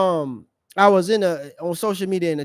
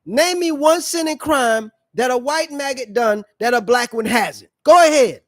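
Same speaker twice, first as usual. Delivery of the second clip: challenging taunt; 4 semitones higher, 4 dB louder than usual. Retold or imitated. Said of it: "And I said".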